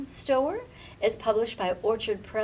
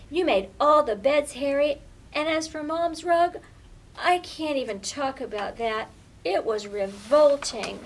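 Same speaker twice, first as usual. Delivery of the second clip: cross telling-off; 2 semitones higher, 4 dB louder than usual. Acted. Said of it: "Lily was getting cross".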